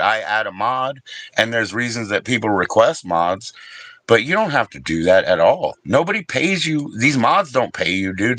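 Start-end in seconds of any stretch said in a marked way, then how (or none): 4.2-8.4 heated insistence. Real, not acted. Ranting at mod Kyle.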